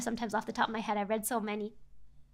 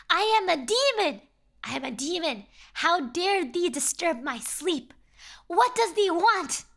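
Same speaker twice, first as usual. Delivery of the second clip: lightly voiced pompous demon, slow and grand; 3 semitones higher, 3 dB louder, slower than usual. Demon introducing himself to the fisherman, mock grand voice. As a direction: announce yourself as a half-hammed demon. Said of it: "the creature is like".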